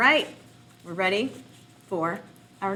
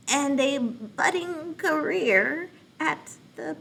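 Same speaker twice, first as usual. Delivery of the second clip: alien voice; 2 semitones higher, much slower than usual. Shown as a demonstration. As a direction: drawl it out like a visitor from another planet. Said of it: "I'm going to read like an alien".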